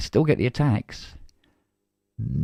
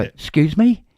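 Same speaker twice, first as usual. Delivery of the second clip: higher, louder, stunned excuse me; can't believe what the doctor said; incredulous outburst; 10 semitones higher, 8 dB louder, slower than usual. Retold or imitated. Telling friends about the doctor, loud disbelief. Doctor says antacid makes acid.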